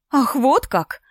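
breathy mock astonishment; exhaled surprise. Nastya feigning shock at Alina's choice, breathy surprise. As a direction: let it out on a breath, eyes wide. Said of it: "выдохнула Настя".

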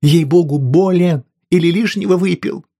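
loud, high, agitated; she's frightened he's gone mad; alarmed wife. A narrator's reading. Wife to husband, loud alarmed scolding.

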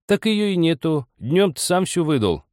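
high-pitched wifely retort; scolding old woman. A narrator's reading. Old woman refuses husband vodka, high scolding.

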